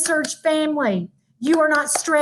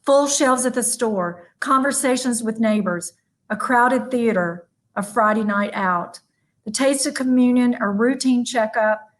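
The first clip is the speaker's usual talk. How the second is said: poem reading; 3 semitones lower than usual. Acted. Closing speaker reading a woman's covid poem, gently. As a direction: read each line like a gentle list.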